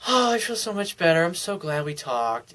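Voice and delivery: lightly put-on sigh of relief; relieved girlfriend. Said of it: "she'll do this. She'll go".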